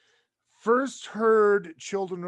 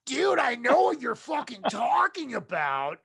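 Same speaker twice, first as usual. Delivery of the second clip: a singer; 5 semitones higher than usual. Acted. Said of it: "being exposed to Sebastian Bach".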